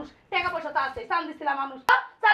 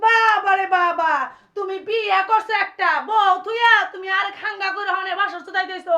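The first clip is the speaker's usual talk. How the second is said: angry tirade; 3 dB louder than usual. Acted. Wife berates husband over second wife.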